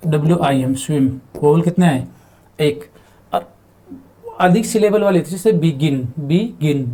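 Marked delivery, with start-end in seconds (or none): 5.5-6.9 बिगिन split into two beats, बि and गिन; two-syllable demonstration. Shown as a demonstration. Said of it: "दो बार में बोला जा रहा है". (बिगिन को दो हिस्सों में, बि-गिन बोलते हुए)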